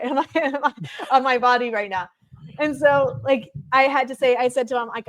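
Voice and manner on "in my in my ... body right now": chuckling through the words; laughing. Real, not acted. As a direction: laugh it out half-joking. Laughs about haircut danger.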